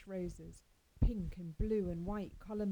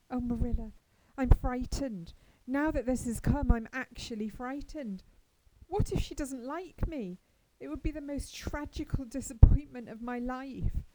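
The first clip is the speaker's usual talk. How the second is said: put-on a raised, higher, louder girlish voice, nervous; frightened girl; 5 semitones higher, 8 dB louder than usual. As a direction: Anne near panic, voice lifting. Anne frightened before meeting Diana.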